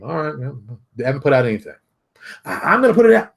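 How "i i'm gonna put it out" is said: mock high boast. Mocking wannabe's boast.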